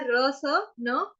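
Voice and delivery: र स न आ very slow, sound by sound; spelled out slowly. Shown as a demonstration. Teacher splitting a word for students, slow. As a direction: break रसना into र स न आ slowly. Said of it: "यहाँ पे क्या है".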